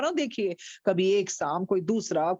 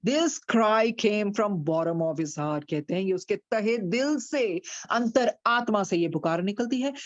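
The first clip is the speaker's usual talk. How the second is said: ordinary delivery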